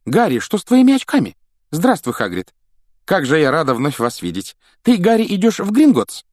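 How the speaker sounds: put-on high, eager girl's voice; bubbling over at seeing them; excited greeting. Hermione greets Harry and Hagrid, excited and high.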